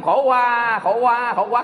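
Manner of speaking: light mock baby wail; imitated newborn cry. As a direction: repeat it like a newborn crying. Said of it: "khóc tiếng Việt không". (giả tiếng em bé khóc)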